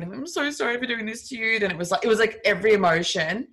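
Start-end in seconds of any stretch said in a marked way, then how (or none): 0.0-1.6 mild mock-tearful apology, slightly higher; imitated crying. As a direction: lightly mimic a tearful ex apologising.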